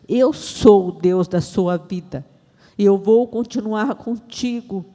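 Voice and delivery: slow, emphatic divine assertion; solemn, drawn-out pronouncement; God's declaration. Retold or imitated. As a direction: declare it with measured authority. Voices God asserting Himself.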